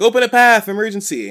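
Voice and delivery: high, loud urgent call; imitated yell. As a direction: clear the way with a mock shout. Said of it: "She's, like, yelling".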